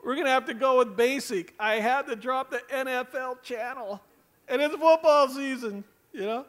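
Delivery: sighing, hammed-up lament; mock-distraught pleading; mock tearful. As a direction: imitate someone coming to you in tears over a trifle. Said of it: "come up in tears and say".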